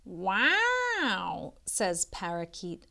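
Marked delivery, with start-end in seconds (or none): 0.0-1.5 a touch of breathless wonder; astonished wow. A narrator's reading. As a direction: parakeet gasping at the view, mildly astonished.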